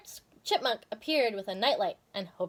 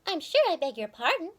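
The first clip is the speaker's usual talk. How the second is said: Goody Tiptoes; 4 semitones higher than usual. Acted. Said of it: "said Missus Goody Tiptoes".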